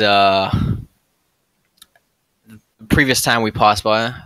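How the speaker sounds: slow, halting in-character speech; rally the party, with long pauses; lightly voiced adventurer. Plays his character's speech to the party.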